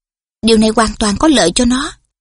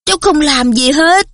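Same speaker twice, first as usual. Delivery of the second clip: patient reply; 5 semitones higher than usual. A narrator's reading. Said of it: "Harry nhẫn nại đáp".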